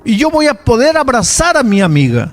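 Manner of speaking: put-on hopeful girl. Girl testifies hope to father.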